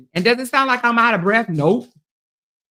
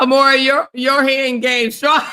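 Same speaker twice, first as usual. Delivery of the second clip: laughing mock quote; 2 semitones higher, 3 dB louder than usual. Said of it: "She said".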